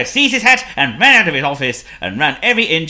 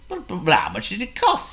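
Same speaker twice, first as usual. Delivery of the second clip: stuttering; 6 semitones higher than usual. A narrator's reading. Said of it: "stuttered Hippo".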